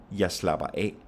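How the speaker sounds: only final "af" stressed, "Jeg slapper" light. Shown as a demonstration. Teacher showing phrasal verb, stress only on "af". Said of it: "only have the stress on that final".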